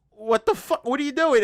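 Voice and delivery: hammed-up shocked disbelief; mock outrage. Outraged reaction in retold scene.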